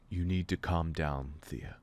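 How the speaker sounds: level. Acted. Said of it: "I say, levelly".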